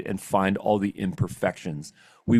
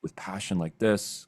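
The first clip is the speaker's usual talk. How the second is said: softer, intent and earnest; quiet intense demo; 2 semitones lower, 6 dB quieter than usual. Shown as a demonstration. Coaching on voice recordings, a quiet passionate demo. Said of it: "You want it to have dynamics where you speak really intently".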